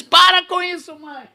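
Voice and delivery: high, yelped plea to stop; pained protest. Retold or imitated. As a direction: cry out while being whipped. Son being whipped with belt.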